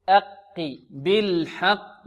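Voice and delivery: "أقي" slow with a thin opening vowel; lightly heavy qaf. Shown as a demonstration. Teacher corrects students, slow lighter qaf in "أقي". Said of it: "بل نقول".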